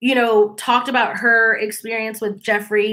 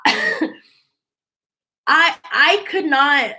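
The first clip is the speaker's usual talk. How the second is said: laughing disbelief; 5 semitones higher, much slower than usual. Real, not acted.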